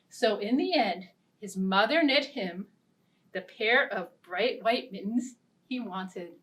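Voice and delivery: lively, sing-song storybook narration; animated read-aloud for little listeners; children's story reading. A narrator's reading. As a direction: read it like a picture book to kids.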